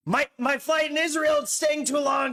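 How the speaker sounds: mocking imitation of a rabbi's shrill voice. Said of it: "like, shrill voice".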